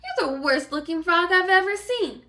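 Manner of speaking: high, loud, teasing fairy godmother; mock the sorry frog, loud and high; scoffing fairy godmother; brash fairy godmother.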